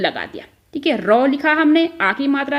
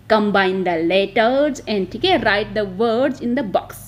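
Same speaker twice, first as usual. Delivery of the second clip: slow dictation; 3 semitones lower, much slower than usual. Shown as a demonstration. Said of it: "क्या बोलेंगे इसको".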